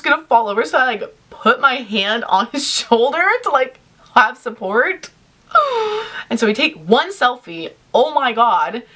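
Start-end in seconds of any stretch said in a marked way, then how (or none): 5.5-6.2 short acted gasp, pitched up; high gasp. Fan leaning on the celebrity's shoulder, acted gasp. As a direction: draw a startled breath for the story. Acts out moment of the selfie.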